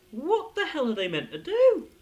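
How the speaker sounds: loud what-the-hell rant; exasperated outburst. Real, not acted. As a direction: throw up your hands in disbelief. Disbelief at animal-overrun hospital.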